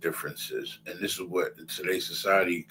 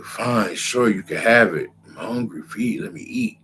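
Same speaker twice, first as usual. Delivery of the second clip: desperate hungry Esau; 4 semitones higher than usual. Retold or imitated. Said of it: "He's like".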